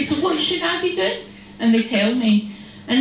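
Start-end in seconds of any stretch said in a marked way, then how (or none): 0.0-1.2 high, sweetly innocent question; sweetly polite. Retold or imitated. Sister humouring unasked advisers, sweetly polite. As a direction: lilt it up in mock sweetness. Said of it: "I smile very sweetly".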